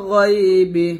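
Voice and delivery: গায়বি with a thick, heavy গ; heavy gha. Shown as a demonstration. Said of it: "গয় মোটা করে".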